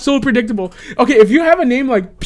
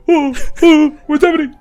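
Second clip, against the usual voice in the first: higher, lightly acted bewildered victim; mock alarmed; 4 semitones higher than usual. Kidnapper imitating victims in the van, mock alarmed. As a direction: play a confused captive in the dark.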